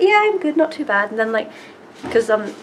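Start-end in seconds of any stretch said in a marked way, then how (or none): 0.0-1.1 imitating Tom Felton. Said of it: "And he was like".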